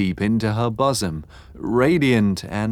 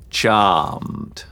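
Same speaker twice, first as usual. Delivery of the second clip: intoning. A narrator's reading. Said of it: "Stanhope intoned".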